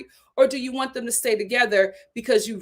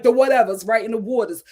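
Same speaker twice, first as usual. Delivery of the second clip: light Philly accent on "whatevers" and "waters"; 6 dB louder, faster than usual. Shown as a demonstration. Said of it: "You don't hear none of the, you know, the R's rolling".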